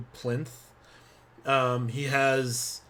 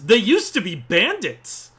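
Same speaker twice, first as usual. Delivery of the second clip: barkeep voice; 8 semitones higher, 8 dB louder than usual. Acted. Barkeep lady quoted by GM.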